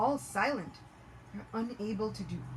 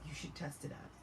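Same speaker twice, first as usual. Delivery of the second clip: very soft, lower-pitched suggestion; sly nudge; 5 semitones lower, 11 dB quieter than usual. Acted. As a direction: coax him quietly, almost under the breath. Brahmin slyly nudges the demon.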